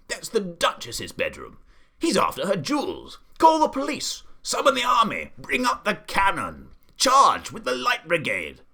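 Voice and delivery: building from plain to high, loud commands; rising to a frantic shout; escalating panic. A narrator's reading. The Duke panicking about the jewels, building to loud frantic orders.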